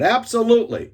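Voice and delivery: very high, loud, elated yes; joyful shout. Retold or imitated. Rival on the table answering the apology, elated shout. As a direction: shout it out with total joy.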